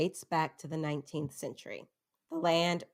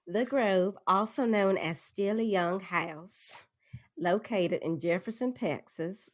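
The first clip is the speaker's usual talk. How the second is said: put-on Southern accent; 2 semitones higher than usual. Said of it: "am I even doing the right accent?".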